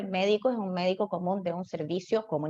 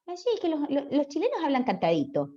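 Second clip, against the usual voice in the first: higher, lilting Chilean accent; Chilean singsong; 5 semitones higher than usual. Shown as a demonstration. Teacher demonstrates the Chilean lilt to students, Chilean singsong. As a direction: speak in a singsong Chilean cadence. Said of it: "también tiene con el cantito".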